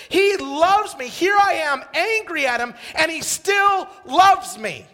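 loud, high, jubilant cry; overjoyed realization. Retold or imitated. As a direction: shout out the joy of being loved. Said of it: "I'm sitting there and I'm going".

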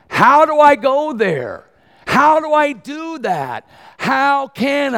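high, loud, slow pulpit cry; preaching at full force. Acted. Preacher crying out to the congregation, full-force preaching. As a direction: cry out the question to the church.

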